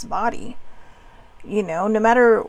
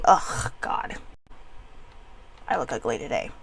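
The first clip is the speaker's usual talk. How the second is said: a low, soft, dejected grumble; mopey self-put-down; 10 semitones lower, 8 dB quieter than usual. Retold or imitated. Putting herself down at the mirror: low, soft, dejected. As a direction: mutter it into the mirror. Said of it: "if you sit there and say".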